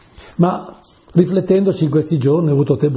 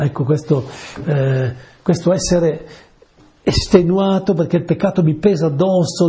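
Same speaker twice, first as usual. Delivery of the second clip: normal talking voice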